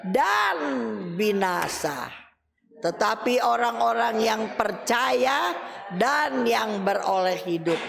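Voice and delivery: slow, drawn-out verse reading; solemn scripture reading. Acted. Preacher reading Hebrews to his friends, slow and solemn. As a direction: read the verse weightily.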